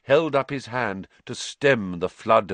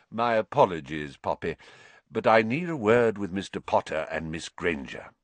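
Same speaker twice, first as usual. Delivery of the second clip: calm. Acted. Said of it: "said Dumbledore calmly".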